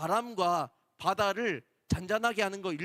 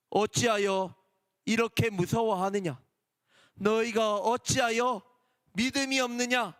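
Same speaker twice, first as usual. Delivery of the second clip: mild stern rebuke. Acted. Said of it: "믿음이 없음을 꾸짖으셨어요".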